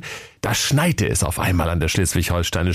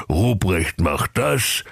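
mocking the boss; 2 semitones lower, slower than usual. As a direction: drag out das with a rise. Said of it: "fluchte der Knecht Ruprecht".

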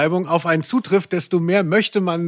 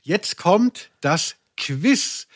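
suspense; much slower than usual. Acted. Announcing the quiz.

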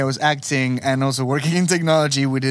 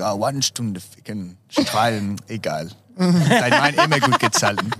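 lightly voiced fake-German escort; deadpan broken German that rises into a laugh; escort pretending German. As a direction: play a Romanian escort faking German. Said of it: "Romanian but pretending to be German".

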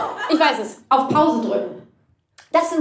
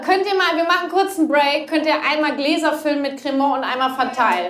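calling out; 5 semitones higher than usual. Real, not acted. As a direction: call the crew over, raised and high. Calling out to crew offstage. (laut rufend nach Günther und Karl-Heinz)

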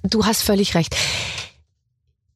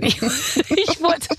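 laughing; 6 semitones higher, much slower than usual. Real, not acted. Laughing while talking.

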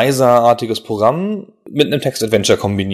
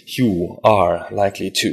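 hammy stage actor; 3 semitones lower, slower than usual. Acted. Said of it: "Adventures theatralisch aufzuführen".

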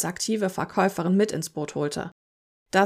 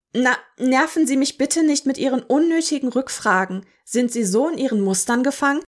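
arrogant scolding; 5 semitones higher, 5 dB louder than usual. A narrator's reading. Rude customer lectures clerk.

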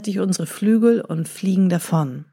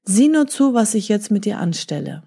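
gritted threat. Acted. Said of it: "knirschte der Jäger".

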